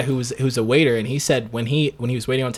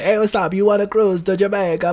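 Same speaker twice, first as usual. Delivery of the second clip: imitated Jamaican caller, pitched up; Jamaican accent; 5 semitones higher than usual. Cold caller selling a cruise, mock Jamaican accent. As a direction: put on a higher Jamaican accent. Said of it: "a call one time from a Jamaican guy".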